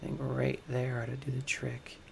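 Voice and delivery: hushed whisper while concentrating. Real, not acted. Builder aligning a piece, whispering in concentration. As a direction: whisper as you line it up.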